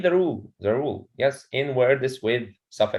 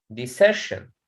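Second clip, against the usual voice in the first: "decision" as de-CI-sion, weight on CI; teacher's "decision", second syllable stressed; stress on middle syllable. Shown as a demonstration. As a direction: model de-CI-sion for the class. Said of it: "so the stress in".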